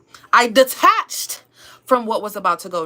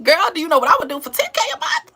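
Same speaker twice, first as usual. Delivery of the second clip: excited; 6 semitones higher, faster than usual. Real, not acted. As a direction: hype it up to a friend. Excited retake, ten K.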